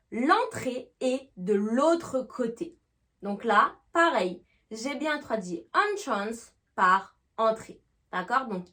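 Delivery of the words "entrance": entrance begun with "on"; "on" first syllable. Shown as a demonstration. Teacher explaining the noun's translation, "on" in entrance. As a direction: start entrance on an open "on". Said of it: "on va faire le son en".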